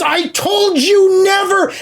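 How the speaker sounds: trembling, very high, slow and drawn-out. Retelling a scene where Jax gets teased about his childhood, imitating Jax shaking. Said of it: "he's shaking and he goes".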